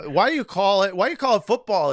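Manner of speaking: mock outraged American, rising pitch; mock indignant. Joking to British guest, mock indignant. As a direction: pretend to be offended by the word. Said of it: "No, I'm just kidding".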